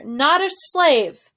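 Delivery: slow loud shout of not a slave; loud slow correction. Acted. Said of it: "Meg echoes the line".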